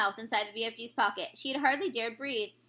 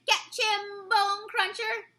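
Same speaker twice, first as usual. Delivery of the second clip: giant shouting; 7 semitones higher, much slower than usual. A narrator's reading. Man hugger throws the BFG, shouting to Bone Cruncher. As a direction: holler it across the field.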